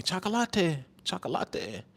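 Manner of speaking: softly cooed girlfriend imitation; a hint of her sweet accent; mild imitation of girlfriend. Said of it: "She used to call me".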